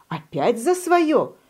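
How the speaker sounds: slow frowning whisper; sulky whisper. A narrator's reading. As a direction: breathe it out, exasperated. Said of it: "насупился заяц".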